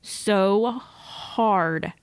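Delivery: slow, choked-up voice; fighting back tears; trying not to cry. Real, not acted. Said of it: "I'm gonna try not to cry".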